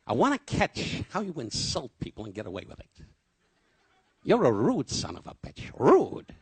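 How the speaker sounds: lightly voiced Don, rising on "Rude"; Don quoted. Don needling his friend in the club, mock rude.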